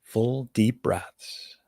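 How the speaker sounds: measured meditation guide, long silences between phrases; guided meditation. Acted. Meditation teacher asking listeners to notice the voice, guided meditation.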